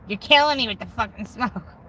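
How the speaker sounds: mock husband's gripe; complaining husband. Wife imitating non-smoker husband, mock complaint. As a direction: imitate a fed-up husband griping.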